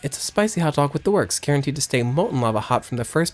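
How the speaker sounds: bubbly cafe server pitch; cheery vendor. Acted. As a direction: sell it like a peppy diner waitress.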